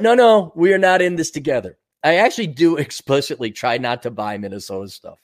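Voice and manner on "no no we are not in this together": mocking quote. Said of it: "Now all of a sudden".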